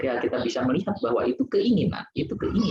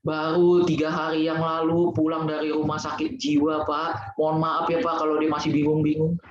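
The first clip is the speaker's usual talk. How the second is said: lightly voiced apologetic wife; 7 semitones higher than usual. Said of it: "Terus dia bilang".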